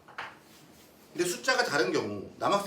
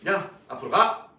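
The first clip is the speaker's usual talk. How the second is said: slow command; 2 semitones higher, 6 dB louder, slower than usual. Retold or imitated. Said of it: "이렇게 마주보고".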